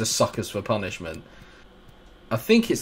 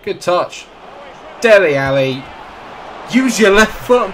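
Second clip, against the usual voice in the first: loud, much higher yell at his player; yelling at his own player to use his left foot; yelling at the screen; 10 semitones higher, 10 dB louder than usual. Real, not acted. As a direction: bellow the instruction at the screen. Yelling at his player mid-attack.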